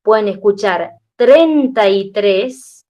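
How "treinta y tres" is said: treinta y tres slow and louder, the r clear; louder demo. Shown as a demonstration. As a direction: spell it out with force. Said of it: "lo pongo con letras mayúsculas".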